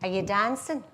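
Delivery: put-on Glaswegian lad asking for a dance; broad Glaswegian chat-up line; Glaswegian accent. Guy asks girl in dance hall, Glaswegian accent. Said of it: "I go into the accent".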